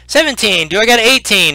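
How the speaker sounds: high-pitched auction call; auctioneer. Acted. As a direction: announce the bid to the crowd. Goblin auctioneer calling bids.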